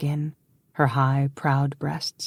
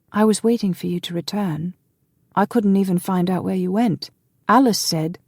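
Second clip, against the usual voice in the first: put-on higher, lightly delicate young man; young brother voiced higher and hesitant; frail young man; 6 semitones higher than usual. A narrator's reading. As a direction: play the timid younger brother.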